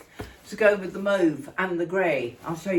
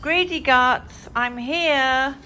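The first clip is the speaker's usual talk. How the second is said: louder, drawn-out playful call; calling to the dog; 4 semitones higher, 4 dB louder, slower than usual. Real, not acted. Arriving with a treat for the dog, playful calling out. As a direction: call out teasingly to a greedy pet.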